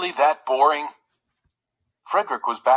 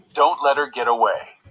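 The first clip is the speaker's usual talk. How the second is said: casual tone; 3 dB louder than usual. Acted. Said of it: "speaking in an unusually casual tone".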